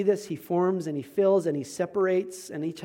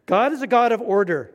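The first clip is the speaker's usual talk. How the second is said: loud, higher imitation German accent; Clemens's German accent; 5 semitones higher, 8 dB louder than usual. Pastor quoting his orderly roommate, emphatic German accent. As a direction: declare it in a mock German accent. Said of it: "saying in his German accent".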